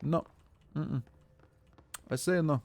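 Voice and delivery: a hammed-up angry Russian accent telling off a cheeky viewer. Streamer scolding chat member Sapo over a redemption, in a mock-angry Russian accent. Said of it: "You get five minutes of angry fucking Russian accent".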